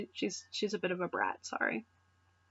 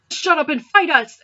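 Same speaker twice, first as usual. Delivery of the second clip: impatient snap; 6 semitones higher, 9 dB louder than usual. Acted. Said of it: "Exy said".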